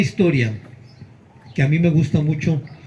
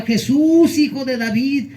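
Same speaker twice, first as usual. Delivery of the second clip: desperate shout; 8 semitones higher than usual. Retold or imitated. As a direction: shout it over the crowd, insisting. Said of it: "él insistía y gritaba".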